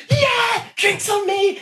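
mock celebratory shout. Actor celebrating a new role with friends, excited shout. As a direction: whoop it up like buying the bar a round.

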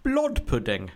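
slow, lightly put-on Swedish accent; a half-hearted Swedish accent, drawn out slowly; mock Swedish accent. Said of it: "we get to hear my, my accents again".

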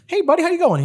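high buddy-buddy greeting; Jarvis voice. Acted. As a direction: greet the bee in a high goofy voice. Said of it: "he's like".

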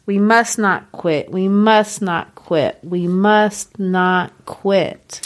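slowing with each repeat; building solemn insistence; solemn repetition. Acted. Repeated closing line, slowing.

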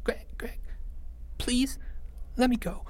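soft, high, frightened begging; trembling whimper. Acted. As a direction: plead in a tiny whimper. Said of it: "his voice a trembling whimper".

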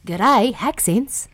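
slow, drawn-out Aussie greeting; slow Australian G'day on haccents; Australian accent. Pretend. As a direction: stretch it like an Aussie saying g'day. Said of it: "another Aussie one".

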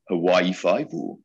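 slow, drawn-out Geordie Hawaii Five-O; Geordie accent. Shown as a demonstration. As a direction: say Hawaii Five-O slowly in a broad Geordie accent, as if performing on request. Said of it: "people used to like me to say".

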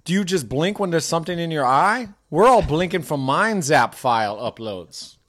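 put-on teen with a hazy South Asian inner-city accent; South Asian inner-city teenager. Teenager teasing about blinking uploads, loose South Asian inner-city accent. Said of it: "like, South Asian inner city".

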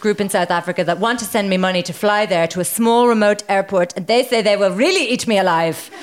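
brisk mock German accent. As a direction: rattle off the post in a comic German accent. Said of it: "do it in a German accent".

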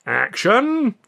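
high, loud "Action!"; shout. A narrator's reading. Pathé Lerman starting the shot, loud shout. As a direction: call it like a director. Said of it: "Pathé Lerman shouted".

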